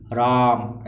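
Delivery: drawn-out call, vowel held long; calling out a name. Shown as a demonstration. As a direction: call the name across a distance, stretching the vowel. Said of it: "जैसे हम इस तरीके से बोलें".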